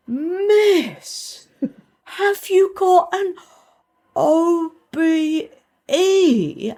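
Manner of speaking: high, slow excited schoolgirl voice; excited pupils. Retold or imitated. Pupils asking their teacher about her honour, high and excited. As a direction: squeal it like thrilled pupils. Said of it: "And they went".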